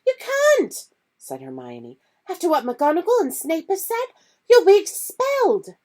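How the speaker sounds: put-on frightened girl pleading; alarmed Hermione. Hermione warning Harry about expulsion, high and urgent.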